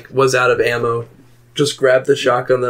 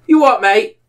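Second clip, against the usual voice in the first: higher-pitched, put-on Irish challenge; mock Irish accent; 9 semitones higher, 3 dB louder than usual. Gamer challenging strangers, mock Irish accent. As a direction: play at being an indignant Irish gamer. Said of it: "acting like an Irish person".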